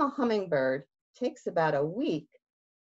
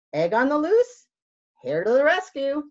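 higher, louder eager call; excited; 7 semitones higher, 6 dB louder, faster than usual. Acted. Hare rushing to help, excited and quick. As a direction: leap into action.

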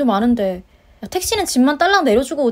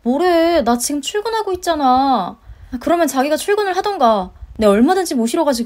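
higher-pitched, exasperated wife; exasperated retort; 3 semitones higher than usual. Acted. Wife arguing with idle husband on the phone, exasperated. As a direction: snap back at him in a raised pitch.

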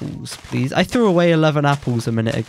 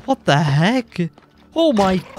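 sudden high startled cries; 4 semitones higher than usual. Real, not acted. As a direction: react in shock. Sudden mobs spawn on screen.

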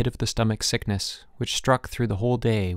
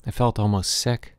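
ordinary delivery, nothing marked

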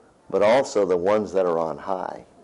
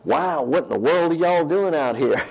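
surprised visitor; 6 semitones higher than usual. Retold or imitated. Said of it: "he was like".

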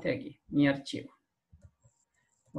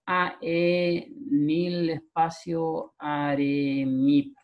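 reading text backwards; much slower than usual. Shown as a demonstration. Teacher slowly sounds out a reversed line for students. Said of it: "debería escribirse como".

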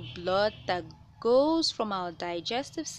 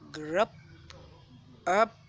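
mock burp. Shown as a demonstration. Explaining the stomach sending air back, playful mock burp. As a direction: play a cheeky burp. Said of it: "That's the sound of the stomach sending back the extra air".

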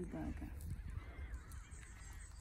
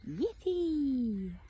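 cheer; 5 semitones higher, 5 dB louder than usual. Acted. Party arrives, child cheers.

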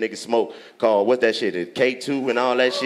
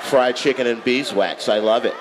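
mock quote. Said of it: "You said".

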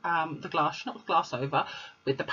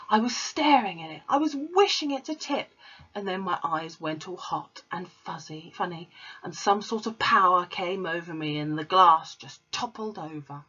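Matilda. Acted. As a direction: describe the strange power as a child. Matilda explaining her power.

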